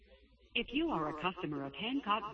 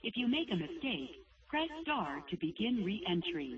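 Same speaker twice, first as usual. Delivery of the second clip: phone menu voice; 2 semitones higher than usual. Real, not acted. Automated bank phone menu.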